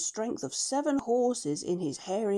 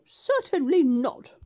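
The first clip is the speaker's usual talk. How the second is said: firm refusal; 6 semitones higher, 6 dB louder, slower than usual. Acted. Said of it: "shook both his heads and said".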